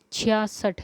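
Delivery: छियासठ spoken slowly and clearly; careful pronunciation. Shown as a demonstration. Teacher showing students how to say छियासठ. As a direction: say छियासठ slowly as the standard form. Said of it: "छियासठ कैसे लिखते हैं".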